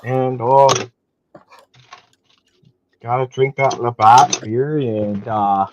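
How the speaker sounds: slow hammed-up Canadian accent; exaggerated Canadian drawl. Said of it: "My most terrible Canadian accent".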